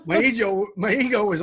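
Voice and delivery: talking through real laughter; laughing. Real, not acted. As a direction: chuckle through a self-mocking confession. Laughs while mocking his younger self.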